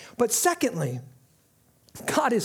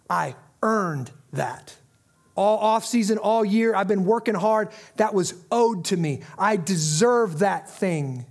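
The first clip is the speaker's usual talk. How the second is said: proud athlete; 3 semitones lower than usual. Retold or imitated. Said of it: "You walk off the field".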